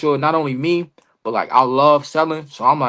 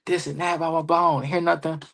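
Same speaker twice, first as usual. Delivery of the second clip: retold complaint, slightly raised pitch; mildly upset; 3 semitones higher, 5 dB quieter than usual. Wrestler back from his match, venting mildly upset. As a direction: lightly act out being upset. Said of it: "I was upset".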